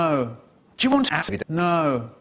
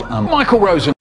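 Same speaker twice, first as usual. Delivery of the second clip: loud; 6 dB louder than usual. Acted. Loud announcement.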